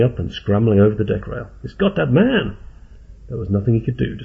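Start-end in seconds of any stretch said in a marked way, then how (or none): 1.6-2.6 alarmed cry. A narrator's reading. Carlos sees Jerry dragged off.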